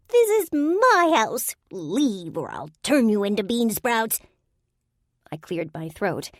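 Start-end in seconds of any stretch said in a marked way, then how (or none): 0.1-4.2 very high, loud, slow accusing yell; high fairy shout. A narrator's reading. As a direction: scold the humans out of your house. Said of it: "pointed an accusing finger".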